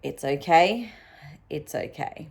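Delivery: calm yourself down gently, pausing between phrases; self-soothing. Retold or imitated. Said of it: "And I was like".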